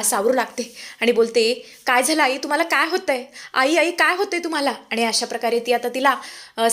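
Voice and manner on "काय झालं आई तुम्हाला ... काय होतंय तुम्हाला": higher-pitched, worried questions; alarmed concern. Acted. Daughter-in-law to collapsing mother-in-law, alarmed concern. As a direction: call to her with rising urgency, acted.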